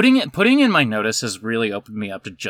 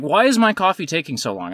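higher-pitched mock complaint; mock man's fit; 4 semitones higher than usual. Impatient customer complaining to barista, mock fit. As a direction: imitate an impatient customer fussing. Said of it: "threw a fifty-year-old man fit".

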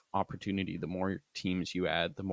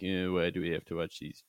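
whiny voice. Retold or imitated. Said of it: "that was my whiny voice".

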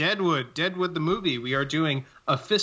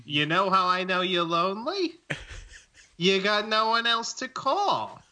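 Tom Hanks impression. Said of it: "me, Tom Hanks, in Catch Me If You Can".

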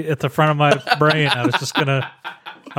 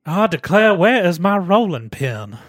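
put-on light Southern Belle accent, slow; 3 semitones higher than usual. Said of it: "Southern Belle".

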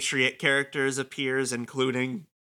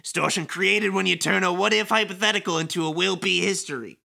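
slightly higher lecturing villain; villain monologue voice; 3 semitones higher than usual. Acted. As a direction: explain it like a grandstanding villain. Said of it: "Kingdom Hearts level villain monologue in stupid voice".

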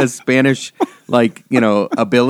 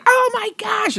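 mock surprised gasp; slower than usual. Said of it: "And she was like".

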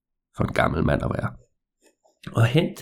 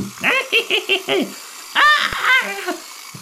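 evil cackle. Acted. Old man jumps out laughing.

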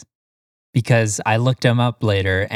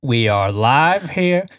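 newscaster voice; 3 semitones higher, slower than usual. Pretend. Mock newscaster bit.

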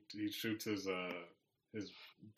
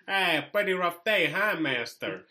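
loud, chirpy toy greeting its owner, stretched slow; a cheery toy greeting its owner, loud and drawn out; servile toy voice; 4 semitones higher, 8 dB louder, slower than usual. Pretend. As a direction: play an eager toy fawning over its master. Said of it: "And it's like".

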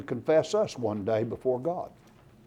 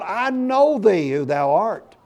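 high, loud terrified cry of a demon; 9 semitones higher, 5 dB louder than usual. Retold or imitated. Unclean spirit cries out to Jesus in the synagogue, loud high terrified cry. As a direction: shriek it out like a cornered devil. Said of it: "he, he cries out".

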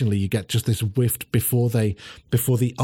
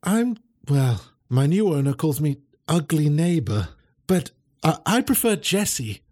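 a higher, hesitant dog voice; greyhound voice; 5 semitones higher than usual. Acted. Greyhound introducing herself to the dogs, higher and hesitant. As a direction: say your new name a little shyly.

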